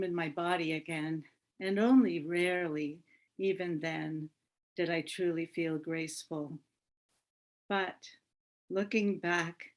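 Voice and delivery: measured poetry reading in short phrases; poem reading. Acted. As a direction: read it as a poem, pausing at line breaks.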